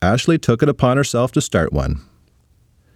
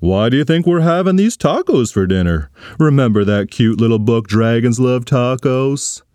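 dad voice. Acted. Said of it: "said her dad".

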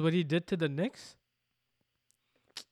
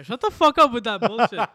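loud, high mock outburst; playful yell; 6 semitones higher, 11 dB louder than usual. Real, not acted. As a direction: shout him down jokingly.

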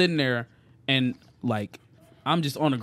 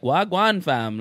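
put-on Toronto accent; 4 semitones higher, slower than usual. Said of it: "will be talking like".

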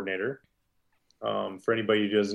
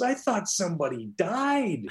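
high-pitched imitation of amused relief; giggling coach; 7 semitones higher, 3 dB quieter than usual. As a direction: play a coach giggling at a false alarm. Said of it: "And he starts giggling".

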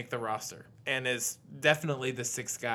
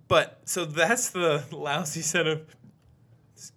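burping the words; 3 semitones higher than usual. Real, not acted. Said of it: "Man, that was quite a burp".

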